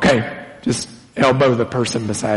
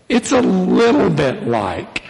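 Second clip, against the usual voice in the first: "little" pitched up for emphasis; stress on little; 4 semitones higher than usual. Real, not acted. Preacher qualifies his comparison, stress on "little". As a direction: lean on the word "little". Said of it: "I emphasize the word little here".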